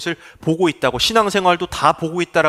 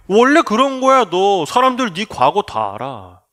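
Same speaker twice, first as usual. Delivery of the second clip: Satan's taunting whisper; 3 semitones higher than usual. Acted. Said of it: "우리에게 속삭여요".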